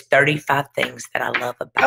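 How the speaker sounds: choking up on the words; tearful. Real, not acted. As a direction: voice catching as she reads the poem. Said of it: "you're gonna make me tear up".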